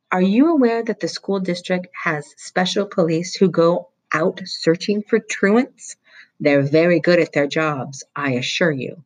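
acid, suspicious interrogation; stern vice principal. Acted. Vice principal threatening Roy with truancy police, acidly.

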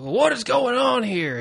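high-pitched imitation of a Southern English accent; Rick. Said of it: "his Rick Southern English accent".

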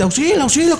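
high mock cry for help; mild mock yell for help; retold scream. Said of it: "comienza a gritar".

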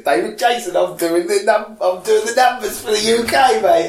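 hammed-up cockney bloke; David Jason impression. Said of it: "Is that what David Jason sounds like?".

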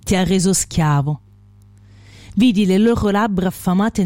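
solemn verse recital with long pauses; poetry reading. Acted. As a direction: recite the closing stanzas line by line.

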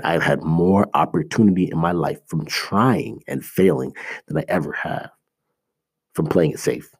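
each word laid down slowly for weight; slow, deliberate repeat. Shown as a demonstration. Repeating his key point to viewers, slow and deliberate. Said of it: "I'll say that again".

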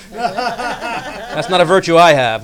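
laugh, then speak up loudly; self-mocking laugh into the words. Real, not acted. Laughs at own lack of brevity.

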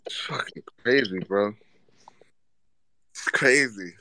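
stunned whisper. Real, not acted. Stunned after the sneaker diss.

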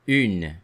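Une with a rounded u; teacher models Une; French u demo. Shown as a demonstration. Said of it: "Then we have the word une".

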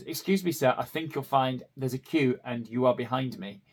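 a clipped, pointedly polite "excuse me, sir"; retelling telling off a man who pushed past in the queue, pointedly polite; stern politeness. Retold or imitated. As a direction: correct a queue-jumper with icy manners. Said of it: "maybe a little stern".

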